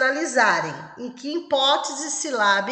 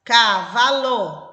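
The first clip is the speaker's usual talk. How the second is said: Cavalo stretched out slowly; slow dictation; 4 dB louder, much slower than usual. Shown as a demonstration. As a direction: spell it out for a child writing. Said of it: "A segunda palavra é uma trissílaba". (ditado pausado)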